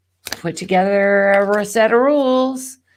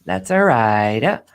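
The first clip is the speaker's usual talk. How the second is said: slow, low Swedish accent; lightly voiced Swedish accent; 5 semitones lower than usual. Shown as a demonstration. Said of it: "That sounds like a Swedish accent".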